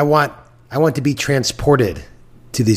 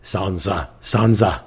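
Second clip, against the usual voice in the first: Littlefinger impression; 4 semitones lower, much slower than usual. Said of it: "your Littlefinger impression".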